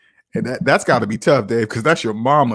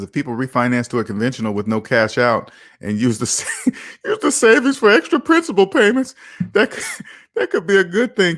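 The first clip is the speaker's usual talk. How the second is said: reading while laughing; 2 semitones higher than usual. Retold or imitated. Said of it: "why you keep talking like that".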